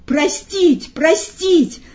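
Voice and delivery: high calls from women in the audience; scattered female pleas, each falling off; women's voices. A narrator's reading. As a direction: cry out for mercy in a high voice. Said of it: "раздались вначале отдельные и преимущественно женские голоса".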